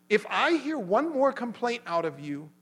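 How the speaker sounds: emphatic mock scolding; retold angry warning. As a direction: re-enact laying down the law. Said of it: "for yelling at you".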